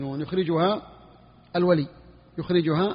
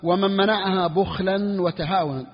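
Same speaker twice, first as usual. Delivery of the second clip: slow text reading. Shown as a demonstration. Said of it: "وقال رحمه الله تعالى".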